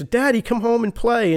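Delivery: put-on high, childlike plea; father quoting his children's text in a small high voice; kids' voice. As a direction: imitate a little kid asking daddy to come play. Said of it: "getting a text from my ex-wife and my kids".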